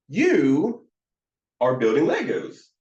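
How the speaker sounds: high, lively lift on YOU; enthusiastic. Shown as a demonstration. Counselor delighting in a child's play, enthusiastic. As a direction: reflect it back with enthusiasm, YOU pitched high. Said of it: "you hear that enthusiasm".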